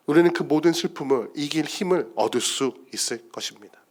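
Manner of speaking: ordinary talk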